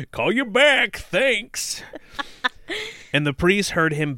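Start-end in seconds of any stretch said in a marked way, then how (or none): 0.1-1.8 loud, very high silly send-up; hammed-up quote. Reader hams up the quote.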